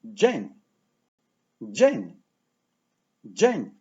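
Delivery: DZIEŃ ringing like the start of jingle; sound like bells. Shown as a demonstration. Teacher modelling for learners to repeat, bell-like Dzień. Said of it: "a sound like bells".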